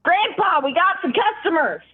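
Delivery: high excited yell; yelling for grandpa. Acted. Young gnome yelling to wake his grandfather, high shout. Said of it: "shakes him and yells".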